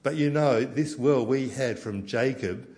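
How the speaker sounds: loud, high, defiant protest; defiant rant. Acted. Samaritan woman telling Jesus they're just as good, loud and defiant. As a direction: stand up for her people, loud and proud.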